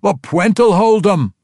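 high, slow bellowing dwarf shout; gruff dwarf bellowing orders; dwarf battle yell. Acted. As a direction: roar it over the din of battle.

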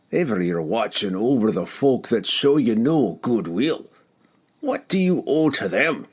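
dwarf pressing his friend, rising; gruff dwarf voice. Acted. Dwarf challenges Drizzt.

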